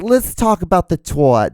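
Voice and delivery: a hint of the radio host, sing-song; Michael Savage impression. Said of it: "He's like".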